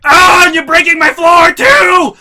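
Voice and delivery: slow, high, very loud cry; shrieked accusation. Retold or imitated. Mom shrieking at us as the box hits the floor.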